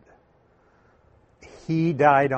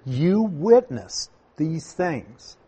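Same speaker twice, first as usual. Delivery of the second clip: slow quote with "You" stretched and raised; stress on YOU; 2 semitones higher, slower than usual. Shown as a demonstration. Preacher quoting the commission to believers, emphatic YOU. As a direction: lean on "You", then measured through the rest. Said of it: "in that verse is very emphatic".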